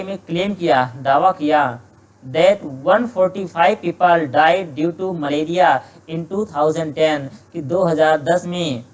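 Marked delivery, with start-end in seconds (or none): 2.2-7.3 slow, careful reading of an exam sentence; slow dictation reading. Shown as a demonstration. Teacher slowly reading a test sentence to students, measured dictation pace. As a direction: read each word out slowly for the class. Teacher reads passage aloud.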